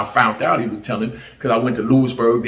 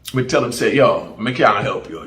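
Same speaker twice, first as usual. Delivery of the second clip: Jamaican patois. Retold or imitated. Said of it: "me speak, uh, American real good".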